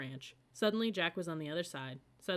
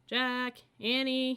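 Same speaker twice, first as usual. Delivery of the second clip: loud, higher call across the yard; dad calling the kids from the porch; 8 semitones higher, 7 dB louder, much slower than usual. A narrator's reading. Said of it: "he called".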